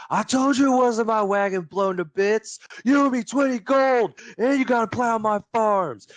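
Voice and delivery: put-on high, loud hollering in a redneck accent; screaming redneck farmer. Farmer yelling over his wagon, furious holler. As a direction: holler across a field, furious. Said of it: "He screams across the farm".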